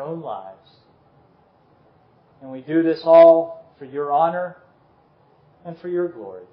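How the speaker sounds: measured, earnest public prayer; closing prayer. Real, not acted. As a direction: pray aloud for the congregation in unhurried phrases.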